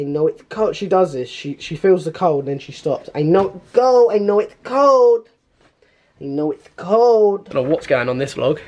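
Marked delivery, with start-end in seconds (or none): 3.1-7.5 dog voice. Pretend. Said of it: "I have a dog voice".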